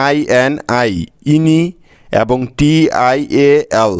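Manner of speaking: slow letter-by-letter syllables; syllables spelled out. Shown as a demonstration. Teacher breaking the word into syllables for students, slowly. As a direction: spell each syllable slowly, then join it. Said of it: "দুটি syllable পেলাম".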